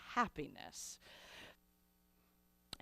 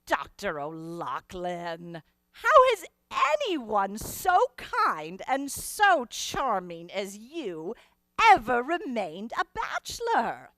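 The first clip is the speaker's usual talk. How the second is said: playful flattery to the kind Irish doctor; teasing fondly. Retold or imitated. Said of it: "I would say to him".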